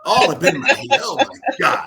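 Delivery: high, loud playful disbelief; mock astonishment. Man amazed the host read his mind, mock astonishment. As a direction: exclaim in amused amazement.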